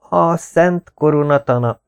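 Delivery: a nervous student's reedy croak; thin hoarse voice. Acted. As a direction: squeeze it out thin and rasping. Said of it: "a hangom egészen vékony és reszelős".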